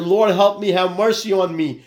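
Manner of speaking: retold cry for mercy, pitched high; crying out to God. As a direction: call up to heaven for help. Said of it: "He cried out again".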